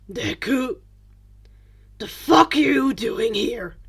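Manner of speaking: loud, rough annoyed bark; irritated. A narrator's reading. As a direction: snap at him with irritation. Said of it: "His tone was irritated".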